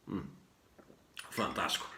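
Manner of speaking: hushed aside; whispering. Real, not acted. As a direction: whisper it like a secret. Aside about post-workout coffee.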